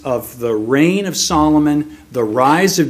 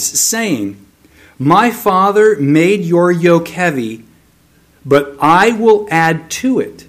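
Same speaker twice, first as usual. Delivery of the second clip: measured, emphatic public Bible reading; declamatory narration for a congregation; scripture reading. A narrator's reading. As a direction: read the Bible story aloud with deliberate stresses and pauses. Reads scripture aloud before teaching.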